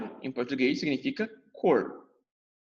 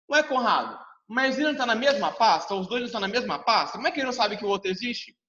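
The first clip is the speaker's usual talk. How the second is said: a mildly higher, quicker puzzled pupil voice; pupil objecting; 4 semitones higher, faster than usual. Pretend. Imagined pupil questions teacher Conrado, mildly higher and puzzled. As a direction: play the confused student asking why.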